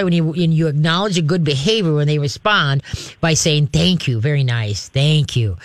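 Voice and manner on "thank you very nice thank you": calm praise dropping lower; measured, low-key thanks. Shown as a demonstration. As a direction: acknowledge good behavior without excitement. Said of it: "just very calmly say".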